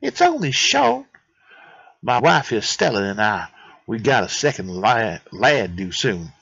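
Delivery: lightly put-on would-be Italian accent; chatty botched Italian accent; Anatoly. Anatoly tells of his wife, loose mock-Italian accent. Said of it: "that's gonna be the accent I give him".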